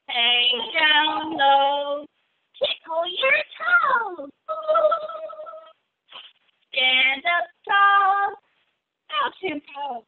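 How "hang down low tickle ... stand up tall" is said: sing-song rhyme. Acted. Sun salutation rhyme for kids.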